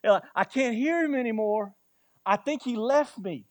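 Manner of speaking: hammed-up worried soul who feels abandoned; half-playful imitation of someone lost and afraid; despairing believer. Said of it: "has anybody ever felt that".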